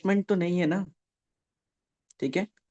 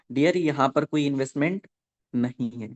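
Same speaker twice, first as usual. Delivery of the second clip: slow and deliberate so students can write it down; slow dictation. Shown as a demonstration. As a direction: spell it out slowly for note-taking. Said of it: "slow slow बोलूंगा ताकि आप लिख लो".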